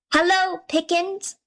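high, small call from inside the pudding; tiny voice calling out. A narrator's reading. Tom calls out to the tinker from inside the pudding, high little cry. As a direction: pipe it up high like a tiny boy. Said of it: "called out at the top of his little voice".

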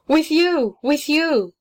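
clinging and begging to go with her; pleading cry. A narrator's reading. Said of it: "cried the child".

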